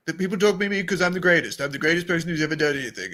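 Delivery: lightly voiced Trump, boastful; a hint of Trump bragging; Trump impression. Podcaster mocks Boston Rob with a light Trump voice. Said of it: "I don't really do voices".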